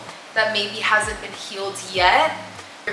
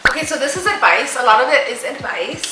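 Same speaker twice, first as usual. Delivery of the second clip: talking around a retainer; words shaped around a retainer; wearing a retainer; 3 semitones higher than usual. Real, not acted. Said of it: "I have lipstick on my retainers".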